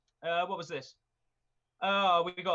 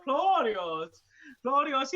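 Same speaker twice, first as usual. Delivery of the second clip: high, loud mock Latin accent on Claudius; 8 semitones higher, 8 dB louder, much slower than usual. Documentary Roman calling Claudius, mock Latin accent. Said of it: "in the Latin accent".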